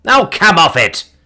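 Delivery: slow, loud, incredulous; exasperated protest. Acted. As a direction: drag out the disbelief. Simon protests.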